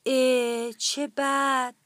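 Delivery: slow, drawn-out mild disappointment; upset. Acted. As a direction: let each word drag in mock dismay. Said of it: "لاکی با ناراحتی گفت".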